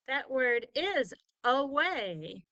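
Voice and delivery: away said slowly, weight on the second syllable way; stressed second syllable. Shown as a demonstration. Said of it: "when we say the word away".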